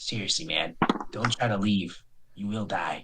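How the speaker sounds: soft, low, intimate whisper. Narrating a game, a character speaks in one player's ear: whispering. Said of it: "he whispers".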